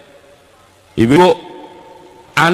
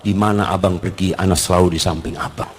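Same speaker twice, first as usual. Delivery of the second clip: devoted wife; 8 semitones lower, 4 dB quieter than usual. Shown as a demonstration. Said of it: "katakan kepada suami".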